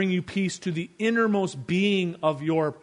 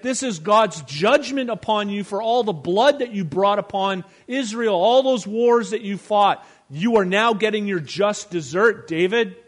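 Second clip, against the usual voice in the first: mock accusing yell, higher and louder; hammed-up taunting from the hilltop; a hint of an angry heckler shouting down at David; retold yelling; 6 semitones higher, 6 dB louder than usual. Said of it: "yelling at him from the top".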